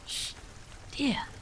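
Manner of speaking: hushing whisper; mother hushes her daughter near the sleeping father. A narrator's reading. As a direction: hush her softly. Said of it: "whispered Sheila".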